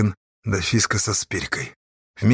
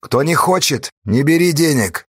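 gloomy; 5 semitones higher, 4 dB louder than usual. A narrator's reading. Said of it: "хмуро сказал Корнила".

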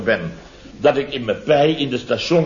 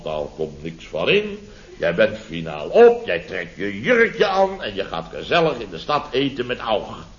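bossy; 3 semitones lower than usual. Retold or imitated. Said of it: "Bazig doen van".

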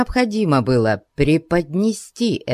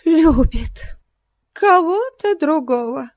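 breathless, high echo; gasping; 14 semitones higher than usual. A narrator's reading. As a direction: gasp it out in shock. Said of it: "произнесла, задыхаясь". (задыхаясь)

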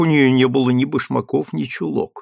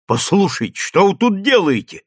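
mock shout; 6 semitones higher than usual. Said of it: "крикнула маркетантка".

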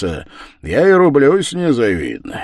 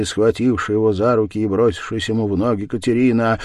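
ordinary delivery, nothing marked

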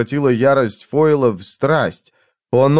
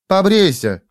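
high curt command; ordered; 6 semitones higher than usual. A narrator's reading. Jiz orders Foyle to shave, curt command. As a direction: give him an order, no arguing. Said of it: "приказала Джиз".

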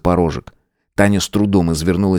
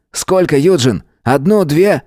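higher, urgent questions; frantic; 8 semitones higher than usual. A narrator's reading. Matvey frantically asks Eugene about pills. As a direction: hurry him in panic.

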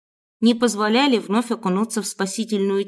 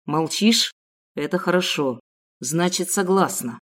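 menacing kidnapper; 4 semitones lower than usual. Acted. Kidnapper mocking his silent captive, low cold menace.

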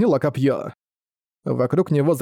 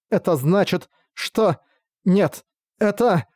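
higher, slow, faltering words; a hint of disgusted despair; despairing realization; 5 semitones higher, slower than usual. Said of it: "исполненный отвращения и отчаяния".

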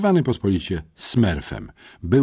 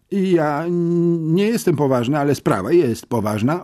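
firm; 9 semitones higher, 4 dB louder than usual. A narrator's reading. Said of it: "oświadczył twardo".

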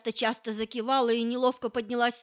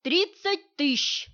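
breathed out; 7 semitones higher, 4 dB louder, slower than usual. Acted. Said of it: "выдохнула мама".

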